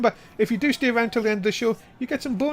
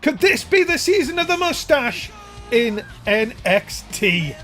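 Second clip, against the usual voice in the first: hyped commentary; 3 semitones higher than usual. Real, not acted. Hyping the winner.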